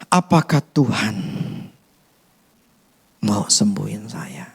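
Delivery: slow hushed whisper. Retold or imitated. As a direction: let the doubt out in a whisper. Doubting believers' inner questions.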